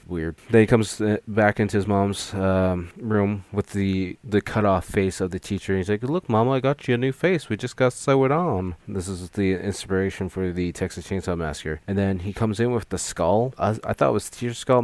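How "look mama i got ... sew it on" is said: higher, eager voice showing off a gift; like a boy proudly presenting a present; lightly voiced son excited for Mama; proud childlike Ed. Ed proud to his mother.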